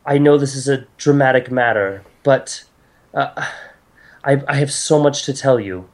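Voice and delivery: lightly voiced goddess, pleading then solemn; formal, emphatic exposition from a concerned deity; earnest goddess. Game master voices goddess.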